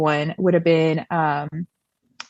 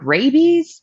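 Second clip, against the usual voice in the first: high-pitched baffled "what?" reaction; incredulous question; 8 semitones higher, 4 dB louder than usual. Retold or imitated. Parents questioning their worried child's hydrophobia fear, incredulous. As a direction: question it in mild disbelief, pitched up.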